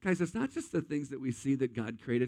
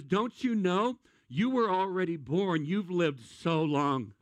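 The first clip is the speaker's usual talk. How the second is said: God's sarcasm; 3 semitones higher, slower than usual. Acted. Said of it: "here's God's sarcasm".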